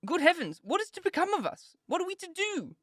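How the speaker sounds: high, wailing cry of despair; woeful exclaim. A narrator's reading. Kitty and Lydia lamenting to their sisters, high wailing woe. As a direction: wail it out in bitter woe. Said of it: "would they often exclaim in the bitterness of woe".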